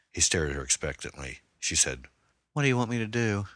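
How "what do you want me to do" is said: higher, fearful woman's voice; frightened woman. Acted. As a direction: ask it small and scared. Terrified hostage voiced.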